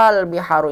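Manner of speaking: "al-biharu" with a stretched opening aa; lengthened opening vowel. Shown as a demonstration. Teacher introducing the word's origin, "al-biharu" with long first a.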